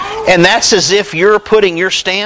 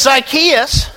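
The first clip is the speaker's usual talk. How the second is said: higher, friendly call up into the tree; lightly voiced Jesus, calling Zacchaeus down; a hint of Jesus inviting himself to supper; voicing Jesus calling up; 5 semitones higher than usual. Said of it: "And he says".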